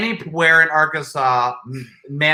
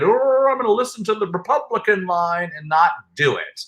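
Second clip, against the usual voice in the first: lightly mocking higher voice; a hint of a put-on party follower; mock politician; 5 semitones higher than usual. Co-host scolding the governor, light mocking imitation. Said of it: "But no, you decided".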